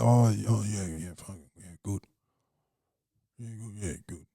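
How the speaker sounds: low, soft, mumbled distracted reply; a spaced-out comic muttering to himself; distracted mumble. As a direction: mumble it like you barely noticed.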